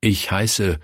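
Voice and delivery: carefully articulated answer; clear and distinct. A narrator's reading. Boy answering the pastor's question, clear and distinct. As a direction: say the name clearly, with pauses. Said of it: "Klar und deutlich antwortete er".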